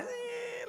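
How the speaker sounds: high, thin mock squeal; forced whimpering smile. Imitating the caught mouse for the audience, high fake-smile squeal.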